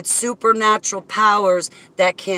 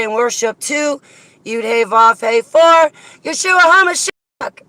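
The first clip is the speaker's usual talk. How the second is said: joyful shout, much higher and louder; yelling; 7 semitones higher, 8 dB louder than usual. Real, not acted. Shouting praise to her supporters, joyful yell. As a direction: cheer them on at full voice. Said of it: "Who's she yelling at?".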